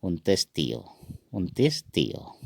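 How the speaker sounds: "उनतीस तियो" as careful model takes; Assamese pronunciation. Shown as a demonstration. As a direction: say "उनतीस तियो" clearly, ending in -iyo. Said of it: "असमिया में कहेंगे".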